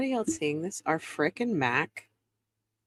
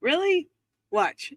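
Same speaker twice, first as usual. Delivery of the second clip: high, slow, disbelieving drawl; incredulous judge; 9 semitones higher, 3 dB louder, much slower than usual. Retold or imitated. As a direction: play the stunned judge, pitched way up. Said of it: "and then he goes".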